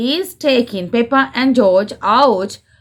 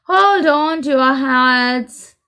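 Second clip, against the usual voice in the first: shout; 6 semitones higher, slower than usual. Acted. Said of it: "shouts Grandpa Rabbit".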